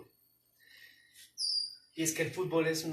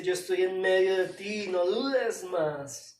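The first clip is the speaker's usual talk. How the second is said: louder declaration, slowing at the end; God speaking; 3 semitones higher, 6 dB louder, slower than usual. Acted. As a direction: declare it as God's promise. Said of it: "Dios nos habla claramente y nos dice".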